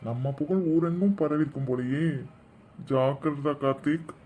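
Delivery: low aside. Acted. Teased brother warning himself on the side, low aside.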